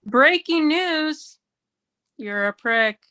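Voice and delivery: slow, mock newscaster announcing an insult; newscaster arguing. Shown as a demonstration. Comic voicing a partner fight as a news anchor, very slow. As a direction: read it like a deadpan anchor, very slow. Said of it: "what if we talk like this".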